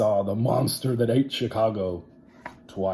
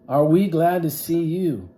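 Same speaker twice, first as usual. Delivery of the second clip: put-on relieved kids; 8 semitones higher, 8 dB louder than usual. Kids welcome teacher back.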